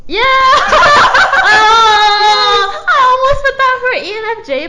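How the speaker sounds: high, loud squeal of delight; excited laughing shout. Real, not acted. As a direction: burst out laughing and exclaim. Delighted at a shared answer.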